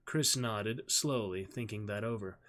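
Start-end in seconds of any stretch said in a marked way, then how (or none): none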